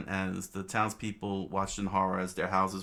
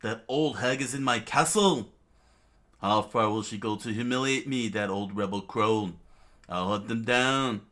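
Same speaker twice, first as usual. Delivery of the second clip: raised, loud tantrum of a king; screamed outrage; 3 semitones higher, 6 dB louder than usual. Acted. King raging at the old woman in his castle, screaming outrage. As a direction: rant with rising indignation. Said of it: "Wapol immediately screamed out".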